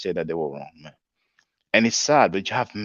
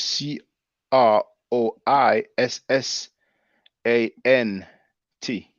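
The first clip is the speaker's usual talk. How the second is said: slow letter-by-letter spelling; 4 dB louder, slower than usual. Shown as a demonstration. Spells it out slowly. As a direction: spell the word out slowly to correct a viewer's spelling. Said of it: "it's not spelled that way".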